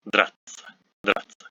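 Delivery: драться ending in hard "tsa"; correct pronunciation. Shown as a demonstration. Teacher models драться for learners with a hard tsa ending. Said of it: "is pronounced as ца".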